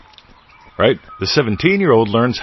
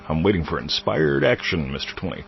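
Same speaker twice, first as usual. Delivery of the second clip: mock whiny excuse; 3 semitones lower, 6 dB quieter than usual. Mocking a listener's excuse.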